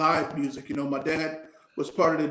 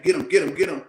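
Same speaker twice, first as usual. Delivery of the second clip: louder, insistent chant of get him; retold yelling; 6 dB louder, faster than usual. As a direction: egg him on like a mom cheering the fight. Mom yelling during kids' fight.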